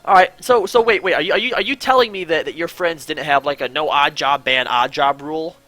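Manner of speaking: high, loud disbelief; can't believe what you're hearing; incredulous questioning. Real, not acted. Challenging a friend about a game rule.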